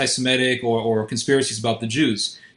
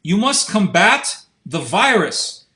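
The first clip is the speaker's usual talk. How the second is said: lightly mock a French thinker's accent in English; French accent imitation; 2 semitones higher, slower than usual. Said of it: "in his big French accent".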